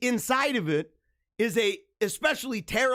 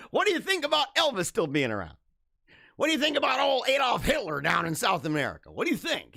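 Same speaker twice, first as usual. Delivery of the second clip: mock conspiracy nut; 4 semitones higher than usual. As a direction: ham it up like a wild-eyed believer. Mock conspiracy theorist rant.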